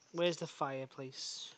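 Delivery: whisper. Real, not acted. Whispering in the dark hall.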